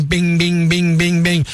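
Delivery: monotone mechanical bing, bing, bing; imitated checkout beeps. Mimicking self-checkouts to co-host, imitated machine beeps. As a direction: chant the bings like a row of machines. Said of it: "self-checkouts sitting there going".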